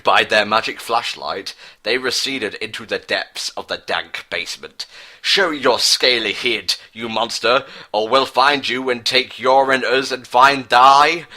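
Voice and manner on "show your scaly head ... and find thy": yelled. Acted. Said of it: "Bertus yelled wittedly".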